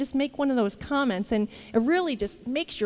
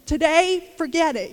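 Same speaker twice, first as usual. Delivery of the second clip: sarcastic grumble; 6 dB louder than usual. Retold or imitated. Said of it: "I'm like".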